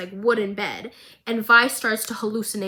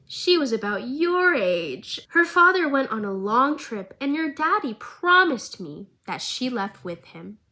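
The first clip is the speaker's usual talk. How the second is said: creepy villain voice; 3 semitones higher than usual. Retold or imitated. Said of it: "looks at Marcus's daughter and goes".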